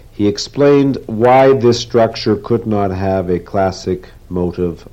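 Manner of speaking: measured, earnest reading of a novel; story narration. A narrator's reading. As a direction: read it like the climax of a speech. Reads novel passage aloud.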